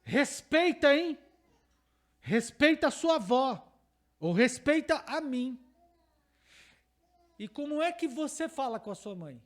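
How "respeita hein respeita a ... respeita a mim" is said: louder stern rebuke, slowing at the end; stern father scolding. Acted. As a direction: demand respect from the boy, sharply. Father scolding son in example.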